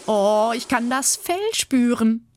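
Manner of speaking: slow, high, caught between laugh and tears; a touch of a laugh breaking into tears; half laughing, half crying. Acted. Anthea feeling the fur in the sand, half laughing half crying. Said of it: "halb lachend und halb weinend".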